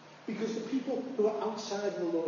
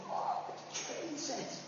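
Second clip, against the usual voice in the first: awed whisper; 8 semitones higher, 9 dB quieter, slower than usual. Retold or imitated. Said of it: "I was like".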